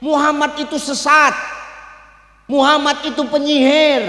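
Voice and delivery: mock cursing rant against Muhammad; cursing old man. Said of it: "Dimaki-makinya". (makian orang tua buta, agak keras)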